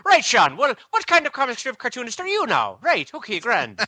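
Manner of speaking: mock Irish. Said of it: "in true Irish form".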